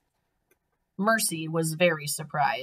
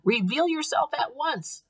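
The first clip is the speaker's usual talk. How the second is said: high-pitched demanding call; shouted command; 11 semitones higher than usual. A narrator's reading. Eugenia ordering Baby to show herself, shouted. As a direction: order someone out of hiding. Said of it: "shouted Eugenia".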